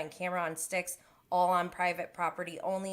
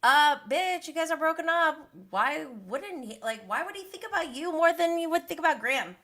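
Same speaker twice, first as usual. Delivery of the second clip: imitating Raquel disgusted; 9 semitones higher, 8 dB louder than usual. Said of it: "She's like".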